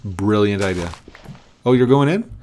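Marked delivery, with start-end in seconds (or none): 1.7-2.3 much higher, louder delighted shout; excited relief. Real, not acted. Gamer cheering the pig into the pen, loud and high. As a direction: cheer like the pig finally obeyed.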